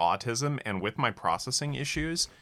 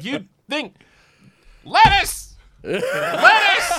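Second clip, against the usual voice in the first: shrill panicked yell of lettuce; yelling lettuce in a kitchen panic; loud sharp voice; 12 dB louder, much slower than usual. Retold or imitated. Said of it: "for me to be like".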